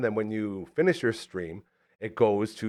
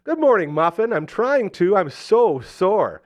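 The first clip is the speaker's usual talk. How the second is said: high, louder, sugary mock sweetness; sweet texting voice; 7 semitones higher, 6 dB louder, slower than usual. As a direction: coo it like a pet name. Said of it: "I responded with".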